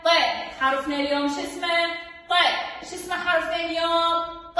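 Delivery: rapid-fire teacher questions; quick quiz. Shown as a demonstration. Quizzing the class quickly.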